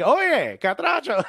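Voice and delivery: high, lilting imitation of the shop staff; mock sing-song reply. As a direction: sing it up like they did. Bakery staff answer imitated.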